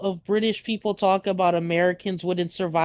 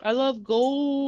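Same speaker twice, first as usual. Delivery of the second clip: slow, higher put-on villain voice; villain catchphrase; 6 semitones higher, much slower than usual. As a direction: draw it out, lightly gloating over treasure. Quoting a film villain's catchphrase.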